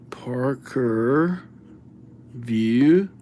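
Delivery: Parker whispered under the breath. Real, not acted. Host whispering a viewer's name while writing it.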